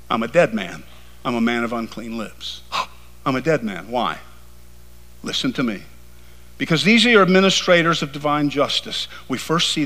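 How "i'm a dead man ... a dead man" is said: low, hushed words after sharp gasps; gasp, then speak low like a doomed man; awestruck dread. Acted. Acts Isaiah seeing the angels.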